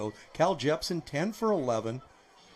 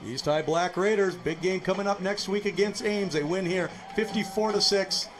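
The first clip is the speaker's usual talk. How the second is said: upbeat, raised broadcast wrap-up; excited sign-off; 5 semitones higher, 3 dB louder than usual. Real, not acted. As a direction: pump up the close before the break. Sign-off to commercial break.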